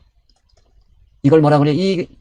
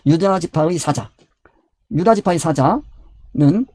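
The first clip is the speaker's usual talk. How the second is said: slow emphasis; much slower than usual. Acted. Preacher stressing key scripture phrase.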